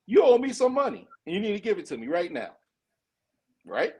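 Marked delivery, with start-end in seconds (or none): 0.1-2.6 blunt demand. Retold or imitated. Showing what the president really means, a blunt mock demand. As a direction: hit them with it straight, no sugar. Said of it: "Simple words is".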